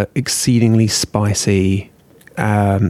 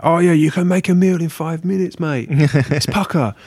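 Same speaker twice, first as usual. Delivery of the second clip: higher-pitched, matey TV chef; Jamie Oliver impression; 6 semitones higher than usual. Mocking TV chef selling five-minute meals, matey impression. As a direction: do a chirpy celebrity cook, slowing on the last phrase. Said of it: "I'm talking about Jamie Oliver".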